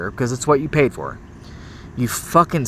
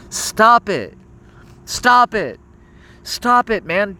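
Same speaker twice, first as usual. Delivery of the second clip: exasperated stop; 4 semitones higher, slower than usual. Real, not acted. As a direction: build the exasperation with every repeat. Ranting, repeating command higher.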